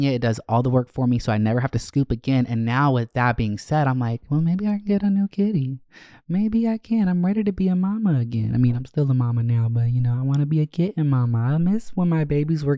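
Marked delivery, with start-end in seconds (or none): 4.3-8.5 excited inner voice. Retold or imitated. Inner voice wanting a kitten.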